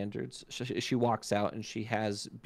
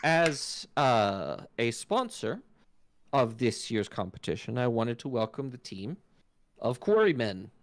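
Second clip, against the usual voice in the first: elf herald; 2 semitones higher than usual. Acted. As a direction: address the arena like a regal elf. Elf host continues her speech.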